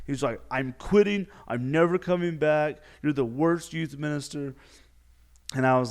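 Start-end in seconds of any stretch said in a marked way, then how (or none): 0.5-4.5 higher, raised-voice mock tantrum; hammed-up angry declaration; furious skier. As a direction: imitate someone quitting in a huff. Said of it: "he was just so mad, so furious".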